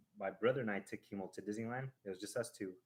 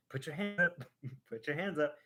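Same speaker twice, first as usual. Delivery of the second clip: higher, louder call to throw hands up; excited urging; 5 semitones higher, 4 dB louder than usual. Retold or imitated. Telling little Kimo on the ride, excited call. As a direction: cheer him on to lift his hands.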